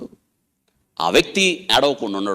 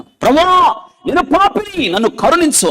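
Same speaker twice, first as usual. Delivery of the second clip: much higher, loud cry for mercy; pleading prayer; 5 dB louder, slower than usual. Retold or imitated. Preacher voices the woman crying out to the Lord for mercy, loud and high. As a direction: plead like a weeping sinner. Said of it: "అని".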